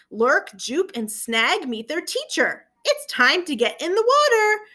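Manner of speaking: slow, lively storybook reading; gentle read-aloud voice with voiced characters; reading to children. A narrator's reading. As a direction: read it aloud to a class of young kids. Reads picture book to children.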